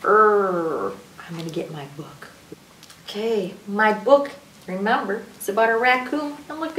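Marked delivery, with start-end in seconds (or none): 0.0-0.9 "er" held long; drawn-out R as "er"; R sound. Shown as a demonstration. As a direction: demonstrate the letter's sound, "er". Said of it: "and the sound is".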